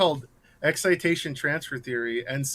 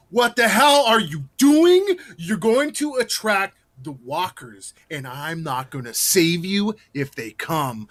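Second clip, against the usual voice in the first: gruff vigilante telling off guests, slowed down; yelling zombie hunter; 3 dB louder, slower than usual. Retold or imitated. Haunt actor scolding guests as vigilante, mock angry. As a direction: play the backwoods survivor scolding visitors. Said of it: "I would yell at people and be like".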